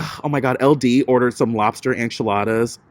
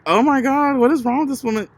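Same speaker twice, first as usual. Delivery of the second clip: higher, startled and incredulous; shocked disbelief; 10 semitones higher, faster than usual. Retold or imitated. Watching the mother sob at lunch, high incredulous gasp. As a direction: react as if you can't believe your eyes. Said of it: "I'm like".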